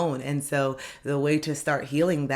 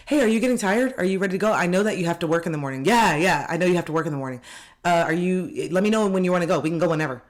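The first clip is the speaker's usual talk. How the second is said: high, loud, sweetly pushy; fake concerned friend; 3 semitones higher, 4 dB louder, faster than usual. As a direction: nudge them again to leave. Acted pushy friend again.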